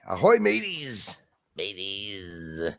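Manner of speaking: slow, growled pirate greeting. Pretend. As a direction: drag it out like an old sea dog. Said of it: "a good way to sound like a, a pirate".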